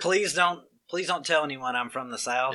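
mock forced-proper Southern accent. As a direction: imitate a Southerner straining to sound proper. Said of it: "Forced proper".

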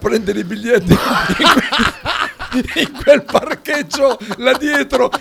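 laughing through the story. Real, not acted. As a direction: tell it while cracking up. Laughing while recalling the night.

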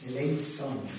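Eleison with an s sound, no z; "Eleison" in church Latin, unvoiced s; Latin pronunciation. Shown as a demonstration. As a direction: say "Eleison" the Latin way, e-lay-son with s. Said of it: "is the correct Latin pronunciation".

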